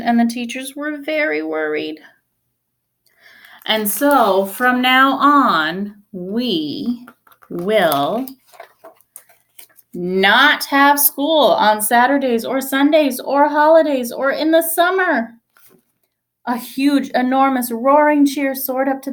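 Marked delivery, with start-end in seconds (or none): 3.7-15.3 slow announcement with pauses on we and will; a slow, dramatic reveal; drawn-out announcement. A narrator's reading. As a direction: build suspense word by word. Principal's big announcement.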